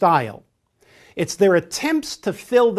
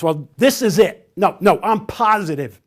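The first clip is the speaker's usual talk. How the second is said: louder and sure, no room for doubt; emphatic certainty; 3 semitones higher, 7 dB louder than usual. Shown as a demonstration. Trainer shows a direct person's emphatic statement, loud and certain. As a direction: insist you are positive. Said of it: "They often make emphatic statements".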